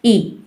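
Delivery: "ई" as "ee"; long E sound. Shown as a demonstration. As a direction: say "ई" like the vowel in eat. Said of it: "long sound है".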